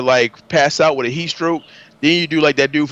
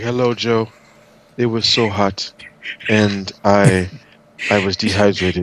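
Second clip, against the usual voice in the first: put-on slow, lower Jamaican accent; 5 semitones lower, slower than usual. Retelling a dehydrated player's account to Joe in a Jamaican accent. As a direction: imitate him in a deliberate Jamaican accent. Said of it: "Jamaican accent".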